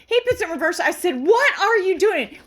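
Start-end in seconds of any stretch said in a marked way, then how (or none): 1.2-2.4 slow, drawn-out, higher-pitched demand; retold exasperated scolding. Passenger to driver reversing, drawn-out exasperated scolding. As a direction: lean on each word in disbelief.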